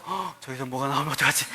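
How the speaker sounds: put-on hushed, gasping little girl's worry; soft gasp of fake fear; mock scared child. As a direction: act out a scared five-year-old peering into the dark. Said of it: "두려움에 떨면서".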